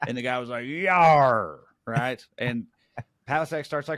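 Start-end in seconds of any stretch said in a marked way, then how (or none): 0.7-1.6 loud, stretched-out pirate holler on yar. Retelling a heckler yelling during a comedy set: imitating a pirate-like yar. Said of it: "Did you just yar like a pirate?".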